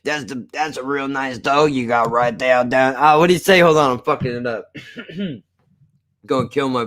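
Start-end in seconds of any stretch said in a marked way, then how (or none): 0.0-3.0 a mild imitation of a Texas man's accent. Streamer imitating a Texan at the corner store, Texas accent. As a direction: imitate a Southern guy praising a dog, Texas accent. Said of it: "He's like".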